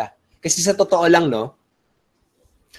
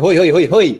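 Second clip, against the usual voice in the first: loud calling hoy, higher pitch; sudden shout; 4 semitones higher, 6 dB louder than usual. Shown as a demonstration. Webinar host yelling to grab viewers' attention, sudden shout. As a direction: yell hoy to grab the room. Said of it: "Parang sinabi".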